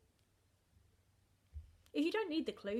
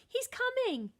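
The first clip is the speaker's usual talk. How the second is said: high, loud alarmed warning; frightened warning; 14 semitones higher, 7 dB louder than usual. A narrator's reading. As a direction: warn him in a panic. Giantess warns of giant.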